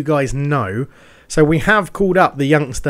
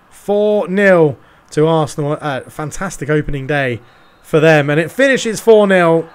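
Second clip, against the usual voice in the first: slow full-time call; 3 semitones higher, 5 dB louder than usual. Acted. Final score announced.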